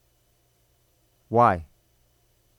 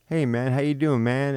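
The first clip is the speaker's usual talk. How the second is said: imitating a dad acting chummy; mock casual, pally greeting; buddy-buddy greeting; 2 semitones higher than usual. Father trying to be buddies with the kid, mock chummy. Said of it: "why are you talking like that".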